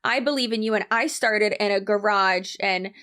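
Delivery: lightly put-on pep-talker voice; mocking encouragement, lifting at the end; mock motivational voice. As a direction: parody an inspirational success story. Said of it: "or this voice".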